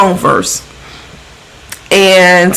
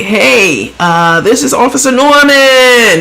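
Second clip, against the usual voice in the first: lightly imitated police officer, lilting up; a hint of the officer introducing himself; Officer Norman; 5 semitones higher, slower than usual. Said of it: "That's how he talks".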